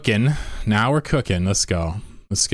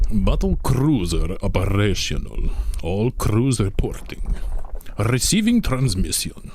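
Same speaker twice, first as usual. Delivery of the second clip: battlecruiser captain. Acted. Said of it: "I don't know how to say it".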